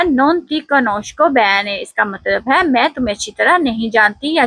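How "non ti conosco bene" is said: "non ti conosco bene" said very slowly, conosco with a hard sk; teacher modelling Italian slowly for repetition; slow Italian model sentence. Shown as a demonstration. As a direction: model each syllable slowly. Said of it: "तीसरा लफ्ज है".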